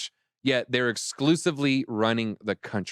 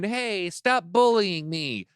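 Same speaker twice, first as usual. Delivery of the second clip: mock crying; 6 semitones higher, much slower than usual. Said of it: "he's crying".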